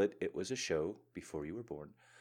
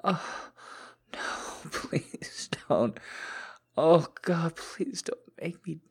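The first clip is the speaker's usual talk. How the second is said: whispered pleading; 10 semitones higher, 6 dB louder, slower than usual. Acted. Pleading in submissive roleplay.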